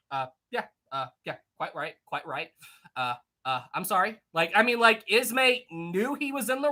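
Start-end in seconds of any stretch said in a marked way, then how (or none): 0.1-4.2 meek apology. Retold or imitated. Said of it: "Ismay just went".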